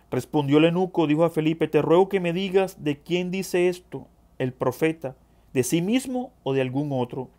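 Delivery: reading scripture aloud, projected. Acted. Preacher reading the Philip passage to the brethren, scripture reading. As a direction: read the verses out to the congregation.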